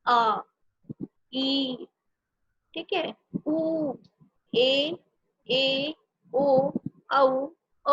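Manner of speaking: each vowel said alone, clearly spaced; slow deliberate vowel drill; reciting vowels one by one. Shown as a demonstration. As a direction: sound out each vowel for the class. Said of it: "जैसे अ के साथ हम मात्रा लगा देंगे".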